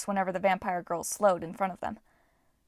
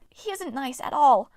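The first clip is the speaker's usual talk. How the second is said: fearful dwarf; 5 semitones higher, 6 dB louder than usual. A narrator's reading. Frightened dwarf continues pleading.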